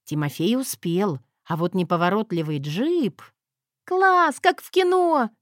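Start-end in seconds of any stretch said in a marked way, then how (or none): 3.8-5.3 much higher, louder thrilled shout; delighted yell. Acted. Girl cheers the car chase, delighted yell. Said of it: "восторженно проорала".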